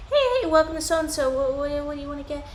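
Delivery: high sing-song server voice, mildly hammed; chirpy cashier. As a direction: sing out a cheery shop welcome. Ice cream worker greeting kids.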